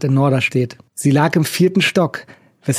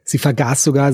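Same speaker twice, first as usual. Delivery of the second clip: plain reading voice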